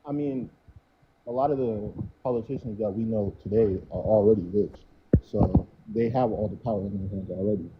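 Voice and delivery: muffled, like through a wall; muffled mic. Real, not acted. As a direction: voice dulled by a bad mic. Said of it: "it still does sound like it's muffled".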